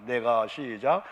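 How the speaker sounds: loud and slow, cueing the congregation; drawn-out call to start reading together; leading a reading. Real, not acted. Pastor cues the congregation to read the verse aloud, loud and slow. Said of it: "한번 읽어봅시다".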